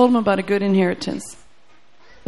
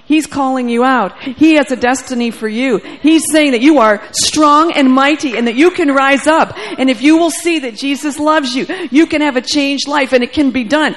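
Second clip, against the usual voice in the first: rising, louder prophetic declaration; declaring over him; 3 dB louder than usual. Retold or imitated. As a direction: preach it over him with full conviction. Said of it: "I declared and decreed over him".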